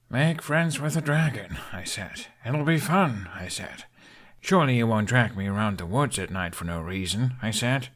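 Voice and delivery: dry self-mocking mimicry; mock your own past words; wry sarcasm; sarcastic.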